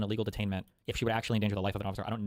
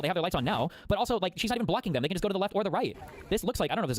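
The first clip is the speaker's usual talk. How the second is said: worked up, pitch pushed much higher; fed up and ranting at the chat; heated, higher-pitched lecture to the viewers; exasperated rant; 7 semitones higher than usual. Real, not acted. Streamer ranting at chat's claims.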